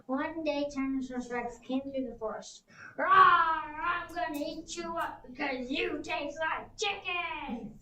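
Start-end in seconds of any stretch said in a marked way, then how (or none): 3.0-7.8 slow roaring dinosaur threat; growling T. rex. Acted. T. rex roaring at the fleeing dinosaurs, slow and loud. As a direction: roar it like a hungry tyrannosaur.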